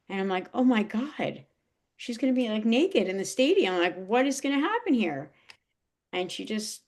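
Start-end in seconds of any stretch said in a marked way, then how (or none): 0.5-5.3 alarmed disbelief. Retold or imitated. Retelling own alarm at scene.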